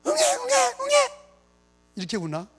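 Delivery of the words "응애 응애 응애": high wailing newborn cry; baby cry. Pretend. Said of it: "애기 소리 또 내야 되나?". (높고 가늘게 우는 갓난아기 울음소리)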